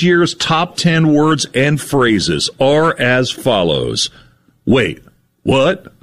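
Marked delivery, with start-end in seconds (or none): 4.7-5.9 slow, weighty reading of each phrase; deadpan list reading. Acted. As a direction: read each phrase like a solemn announcement. Reads banished words list.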